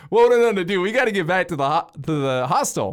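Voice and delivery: high, loud alarmed shouting; panicked yell. Retold or imitated. Panicked at friend's yacht plan.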